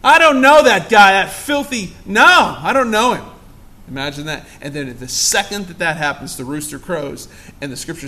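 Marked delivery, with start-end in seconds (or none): 0.0-3.2 loud, heated denial of ever knowing him; vehement denial. Acted. Peter cursing at the accusers, a loud heated denial. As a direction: spit out the denial like an oath. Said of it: "he uses a curse word and an oath".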